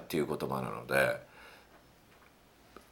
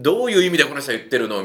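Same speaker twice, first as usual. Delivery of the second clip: puzzled listener; 5 semitones higher, 5 dB louder, faster than usual. Retold or imitated. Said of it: "周りくどい言い方って、".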